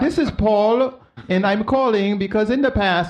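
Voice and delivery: lightly imitated Indian call-centre accent; a touch of an Indian caller's accent, slowed; mock Indian telemarketer greeting. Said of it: "and the guy's like".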